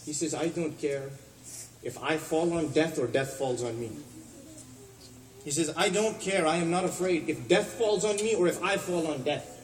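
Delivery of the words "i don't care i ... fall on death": higher and louder, unafraid; a loud, defiant restatement; fearless declaration. Retold or imitated. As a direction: repeat it raised and defiant. Imam Ali's reply, raised repeat.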